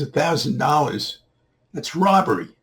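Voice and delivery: high-pitched indignant disbelief; acted outrage. Man balking at the boy's new price, incredulous. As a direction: echo the price high, then protest.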